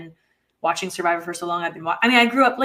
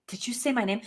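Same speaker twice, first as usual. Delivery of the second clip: imitating Abby; 6 dB quieter than usual. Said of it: "look you in the eye and be like".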